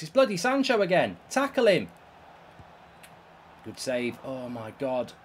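usual speaking voice

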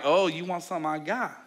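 mildly sly sibling tease; sly teasing. Acted. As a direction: say it with a sly smile. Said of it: "like, sly smile".

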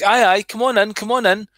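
a mildly voiced pushy salesman luring people in; church as salesman. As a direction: hawk salvation like a cheesy insurance salesman. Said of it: "It's like".

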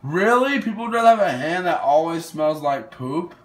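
can't believe the others picked the poop hand; surprised. Real, not acted. Surprised by the poll results.

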